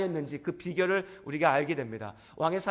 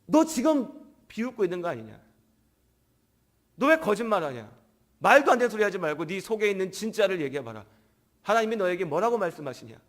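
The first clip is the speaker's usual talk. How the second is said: offended king; 2 semitones higher, 3 dB louder than usual. Acted. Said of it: "아합 왕이 빈정상한 겁니다".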